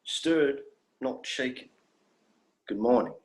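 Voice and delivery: lightly put-on, mannered phrasebook English; stilted textbook Standard. Alien ignoring the doctor's begging, reciting stock phrases in stiff formal Standard. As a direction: rattle off stock phrases proudly. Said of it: "I'm begging you, please, stop".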